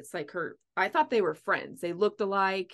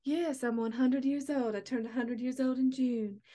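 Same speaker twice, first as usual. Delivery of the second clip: lightly voiced old lady, pitched higher; a hint of a proud centenarian, raised pitch; old lady's reply; 4 semitones higher than usual. Voicing the hundred-year-old passenger.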